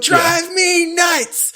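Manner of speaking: very slow, high, drawn out; a slow, sing-song comeback; drawn-out reply. Retold or imitated. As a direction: drag the line out on cue. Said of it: "So I go".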